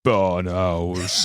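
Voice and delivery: big, deep imitation, drawn out; Henry. Retelling the friend's rescuing answer, big deep voice. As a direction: boom it slowly in a mock deep voice. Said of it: "in his big, deep voice".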